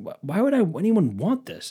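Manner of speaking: high-pitched incredulous question; baffled, pitch leaping up; retold disbelief. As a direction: squeak up in mock bafflement.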